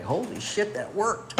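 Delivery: high, laughing disbelief; amazed at his own success, laughing. Retold or imitated. Retold amazement that it worked.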